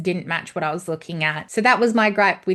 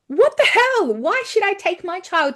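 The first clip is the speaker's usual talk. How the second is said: much higher and louder outburst; outraged; 9 semitones higher, 5 dB louder than usual. Real, not acted. Mother venting about a kids' film in real outrage. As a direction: burst out in disbelief.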